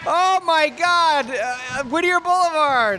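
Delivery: high ecstatic shout; excited yelling. Real, not acted. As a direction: whoop it like a fan. Celebrating the shot, shouting.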